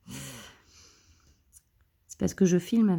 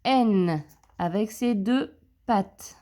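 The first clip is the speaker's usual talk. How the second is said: slow emphasis; 2 semitones higher, slower than usual. Shown as a demonstration. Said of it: "On a donc bien à chaque fois un".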